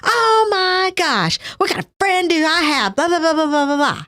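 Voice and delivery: high, crying rant at God; mock-tearful complaint to the Lord, pitched high; retold tearful yelling. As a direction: replay the hurt, tearful outburst in the car. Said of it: "I drove home and I was yelling".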